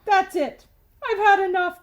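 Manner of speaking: loud, high, fed-up outburst; boy yelling he's had enough of the tooth; cried out. Acted. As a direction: burst out at the end of your rope. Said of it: "cried Stuart".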